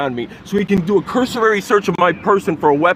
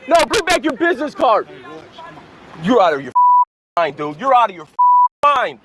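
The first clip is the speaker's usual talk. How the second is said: shaking with anger; 5 semitones higher than usual. Real, not acted. Furious driver confronting police officers.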